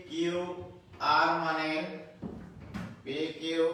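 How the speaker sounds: slow, measured dictating voice; slow dictation. Acted. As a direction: read each word out for students to write. Teacher dictates problem to class.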